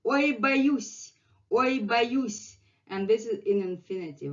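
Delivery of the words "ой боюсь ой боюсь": higher startled cry; mock fright. Teacher acting the word for students, higher. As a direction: act out being scared.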